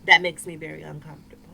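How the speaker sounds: politely put, no fuss; polite, succinct request. Retold or imitated. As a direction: retell a courteous but firm boundary. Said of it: "I very politely and succinctly said".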